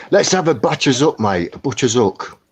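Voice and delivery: weak Cockney accent attempt. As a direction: try a Cockney accent, badly. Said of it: "I can't do a Cockney accent".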